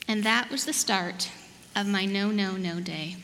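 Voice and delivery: expressive picture-book narration, drawn-out key words; measured storytime voice with playful emphasis; storybook reading. A narrator's reading. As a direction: read it aloud to little children, unhurried. Reads storybook to children.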